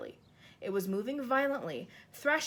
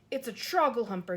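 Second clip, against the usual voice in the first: louder alarmed call; shout; 5 dB louder than usual. Acted. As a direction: raise the alarm at the bad dream. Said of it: "he shouted".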